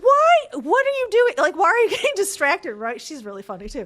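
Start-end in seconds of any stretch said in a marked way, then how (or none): 0.0-2.7 higher, louder mock trainer scolding; trainer's exclamation. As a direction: playfully call out a distracted runner. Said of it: "my trainer's like".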